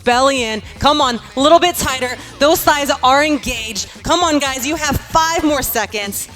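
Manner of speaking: lively fitness coach cueing class; aerobics instructor. Acted. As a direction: coach the class, upbeat and encouraging. Leads workout class.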